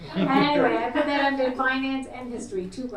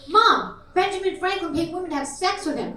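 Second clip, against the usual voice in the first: lightly voiced child, pitched up; a hint of an alarmed kid, higher; child calling Mom; 6 semitones higher, 4 dB louder than usual. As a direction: call out a startling discovery to mom. Child runs back, calls out to mom.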